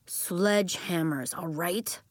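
slow, grudging repeat; reluctant. Acted. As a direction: drag it out reluctantly.

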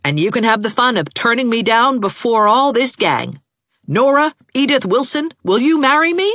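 very high, loud angry proposal; exasperated outburst. A narrator's reading. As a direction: rant heatedly, then propose as a challenge. Angry proposal mid-quarrel.

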